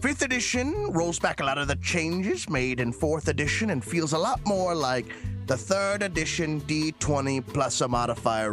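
put-on fading old miner voice, half-sung; a hint of old miner drifting into a pitch; old prospector. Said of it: "I've lost track of my accent".

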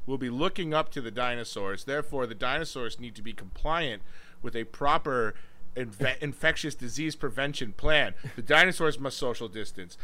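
mock acceptance speech. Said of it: "your best Oscar acceptance speech".

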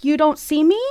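high, loud disbelief at the fighters; where did they even come from, shouted high; high, indignant mock outrage; baffled outrage. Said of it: "I'm looking around like".

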